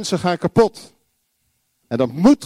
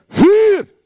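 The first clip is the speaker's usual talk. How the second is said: loud, very high shout; high, urgent yell of alarm; calling out; 8 dB louder than usual. Acted. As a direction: cry it out at full force. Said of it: "En wij roepen".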